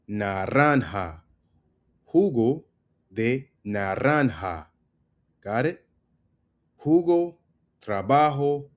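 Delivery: "Naranja", "Jugo", "trabajo" with a breath from the throat for j; breathy Spanish j. Shown as a demonstration. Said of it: "with the G and J sounds".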